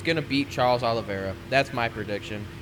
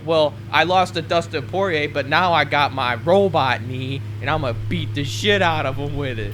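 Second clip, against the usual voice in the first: mock Conor boast; 2 semitones higher, 3 dB louder than usual. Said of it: "He goes like".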